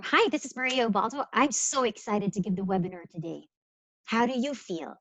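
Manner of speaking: lively, upbeat introduction; energetic, engaged phone voice; enthusiastic demo. Shown as a demonstration. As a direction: greet them brightly, eager to present. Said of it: "That's very different from".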